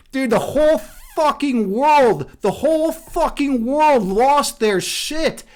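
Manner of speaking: slow, drawn-out disbelief; incredulous emphasis. Real, not acted. Streamer tells viewers about the outrage, slow and incredulous. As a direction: lean hard on every word. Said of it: "emphatic retelling of backlash".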